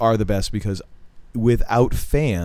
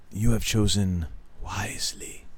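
put-on hushed, grave old knight; a creepy whispered "You have chosen wisely"; 4 dB quieter than usual. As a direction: whisper it like the ancient grail knight. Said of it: "as the knight would say".

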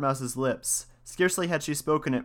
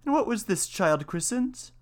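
mouse voice; 9 semitones higher than usual. A narrator's reading. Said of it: "the mouse inquired".

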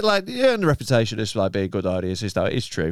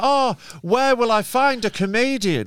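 high, drawn-out mock wondering; mock lament; 5 semitones higher, slower than usual. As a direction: wail it slowly as a helpless promoter. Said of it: "It's not like they're like".

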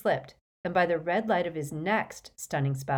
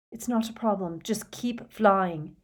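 shouted back; 3 semitones higher than usual. Acted. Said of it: "Harry shouted back".

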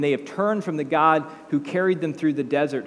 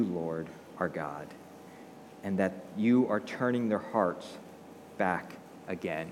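praying; 3 semitones lower than usual. Acted. Elijah prays at the time of the sacrifice, solemn prayer. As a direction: plead steadily, pausing between phrases. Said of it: "stepped forward and he prayed".

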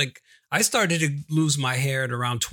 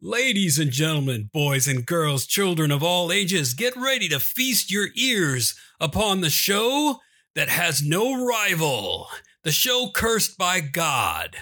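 carnival barker. Acted. Announcing a carnival show intro.

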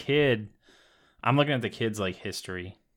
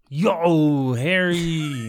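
a hint of a giant's voice, slightly higher; lightly voiced Hagrid with a laugh; mock Hagrid; 3 semitones higher, much slower than usual. Friend mocks Hagrid's greeting, lightly voiced. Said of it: "He's all like".

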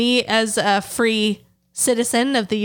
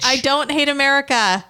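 indignant protest; 6 semitones higher than usual. Real, not acted. Protesting playful accusation.

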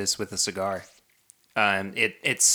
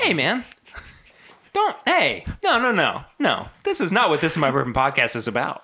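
mock yelling; 6 semitones higher, 4 dB louder than usual. Mock outburst at co-host.

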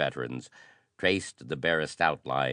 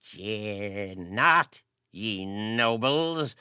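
put-on high, slow, stormy old priest; storming; 7 semitones higher, much slower than usual. A narrator's reading. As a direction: rail at the nobles. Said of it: "Heracles stormed on".

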